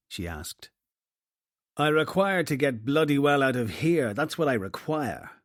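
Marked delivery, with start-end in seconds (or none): 1.8-5.3 curt angry retort, louder; snapped back. Acted. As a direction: snap it back at her. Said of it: "he snapped back at her".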